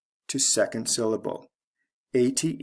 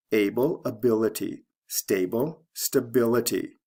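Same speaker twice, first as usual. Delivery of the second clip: Able and Stable stressed first, ability and stability second; shifting stress. Shown as a demonstration. Teacher showing the same pattern, stress moving to second syllable. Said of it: "First syllable to second syllable for the stress".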